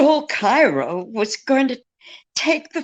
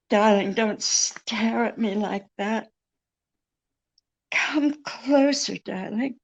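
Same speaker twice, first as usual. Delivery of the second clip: femme fatale; 5 dB quieter than usual. Acted. Seducing the detective, soft.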